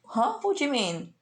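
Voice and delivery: high startled huh, lightly acted; mock surprise. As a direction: play the confused hero caught off guard. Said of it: "Goku's usually is like".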